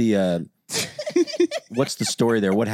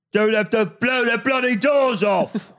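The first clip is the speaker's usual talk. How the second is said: Michael Caine; 12 semitones higher, slower than usual. Retold or imitated. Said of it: "you could probably do actually Michael Caine".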